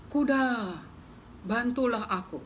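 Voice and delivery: slightly high little plea; pleading mouse. Acted. Mouse begging the horse for help, a light plea.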